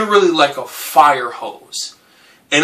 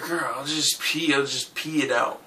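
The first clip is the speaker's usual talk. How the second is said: muttering; 12 dB quieter than usual. Retold or imitated. Drunk mumbling to himself.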